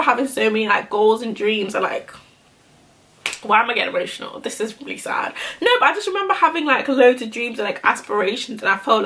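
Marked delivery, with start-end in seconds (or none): 3.4-5.3 soft, tearful, the last words almost whispered; welling up, voice sinking to a breath; getting emotional. Real, not acted. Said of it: "I don't know why I'm getting emotional".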